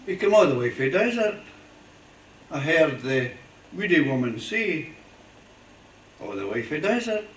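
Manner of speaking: put-on poem recited in a Fife accent. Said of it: "I have to say it in a Fife accent".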